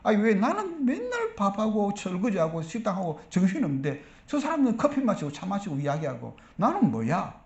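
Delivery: mildly aggrieved complaint; mock resentful grumble; hurt grumbling. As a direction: imitate a put-upon kitchen volunteer grumbling. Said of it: "섭섭이가 들어오는 거예요".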